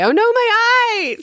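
high loud hammed-up cry; mock wail. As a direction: cry out like your eyes burst.

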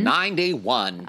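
drawn-out, high amazement; amazed. Real, not acted. Cohost marveling that the actress lived to ninety-one. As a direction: stretch it out slowly in wonder.

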